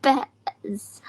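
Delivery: Beds, whispered without voice; Beds, breathy and unvoiced; whispered retry. Real, not acted. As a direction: whisper Beds back carefully. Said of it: "That's better".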